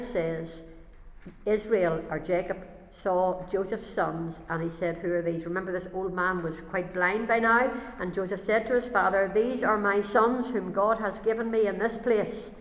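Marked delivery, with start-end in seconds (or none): 1.4-5.4 measured, deliberate Bible reading; scripture reading. Acted. Reads Bible passage aloud. 8.0-12.5 measured, deliberate Bible reading; scripture reading. Acted. Reads Bible passage aloud.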